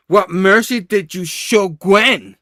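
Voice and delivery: slow, forceful acted interrogation; angry demand. Spidey punching Norman over Gwen, angry demand. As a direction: hammer each word in mock rage.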